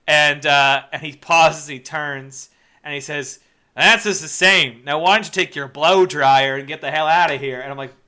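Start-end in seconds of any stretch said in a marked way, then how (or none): 3.7-7.6 mock Australian-British accent. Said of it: "sort of like an Australian slash British accent".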